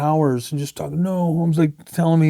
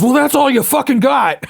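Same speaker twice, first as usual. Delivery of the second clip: retold angry yell, higher and a bit louder; 7 semitones higher, 4 dB louder than usual. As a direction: throw it back as a put-down. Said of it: "And he yelled at me".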